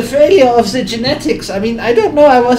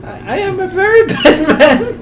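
high put-on German villain, half laughing; high German scientist voice; 12 semitones higher, slower than usual. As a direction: ham up a giggling German scientist.

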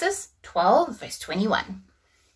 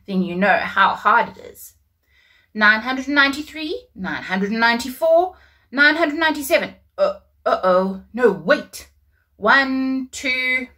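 flustered counting, louder; Abraham counting; 2 semitones higher, 4 dB louder than usual. Acted. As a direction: count stars, lose track, start over. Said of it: "Abraham said".

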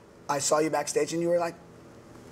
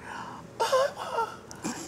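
imitated gasp; 4 dB quieter than usual. Moved by the emotional speech.

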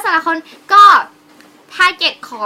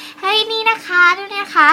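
exaggerated high-pitched product patter; demonstrated sweet presenter voice; 8 semitones higher, 4 dB louder than usual. Shown as a demonstration. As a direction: lift it high and draw it out. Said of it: "ลูกน้ำก็ต้องพูดแบบ".

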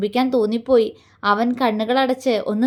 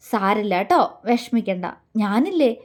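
loving comfort; 3 semitones lower than usual. Acted. Man comforting the crying girl, low tender reassurance. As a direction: soothe her tenderly. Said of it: "അവൻ സ്നേഹത്തോടെ ചോദിച്ചതും".

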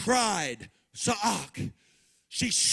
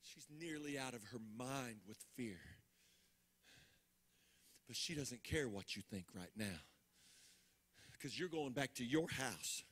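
much softer, low, intimate narration; hushed storytelling; 6 semitones lower, 12 dB quieter, faster than usual. Acted. Preacher softly picturing the widow's empty house, hushed. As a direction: draw the congregation in, barely above a breath.

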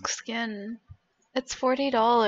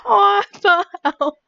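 loud, higher what-the-hell; shocked exclamation; 7 semitones higher, 11 dB louder than usual. Real, not acted. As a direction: exclaim it in disbelief. Surprised by the pull.

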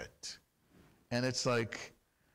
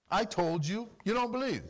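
exasperated repeat; 7 semitones higher than usual. Acted. Preacher echoes Yeshua's rebuke.

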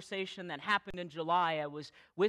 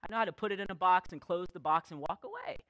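incredulous protest; faster than usual. Retold or imitated. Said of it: "And I was like".

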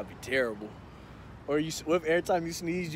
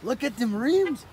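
slower, stretched, louder admiring call; drawn-out admiration; 7 semitones higher, 5 dB louder than usual. Real, not acted. Friend admiring the rims again, slow and drawn out. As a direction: savor each word of it.

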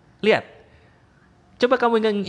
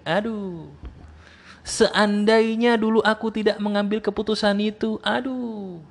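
regretful whining; 5 semitones higher, slower than usual. Retold or imitated.

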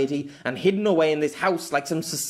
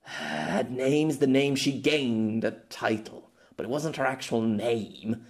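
disheartened, slow; slower than usual. Acted. Pierre explaining the name, disheartened and slow. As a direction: let the fight drain out.

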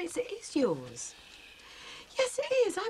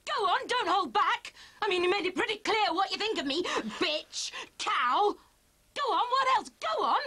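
raised, bitter challenge; angry; 10 semitones higher, 3 dB louder than usual. Acted. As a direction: dare him to insult you, loudly. Wife challenging husband in a quarrel.

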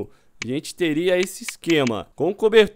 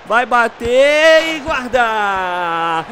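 rising goal commentary; 2 semitones higher, 4 dB louder, much slower than usual. Real, not acted. Goal about to be scored.

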